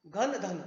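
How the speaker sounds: घन with breathy घ, धन with dental ध; contrast घ and ध. Shown as a demonstration. Teacher contrasting घन and धन for students. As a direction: say घन then धन, aspirates clear. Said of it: "घन और धन".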